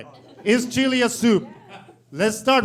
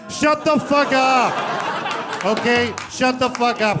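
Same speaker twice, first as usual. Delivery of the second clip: joking shout at heckler; 3 semitones higher, slower than usual. Real, not acted.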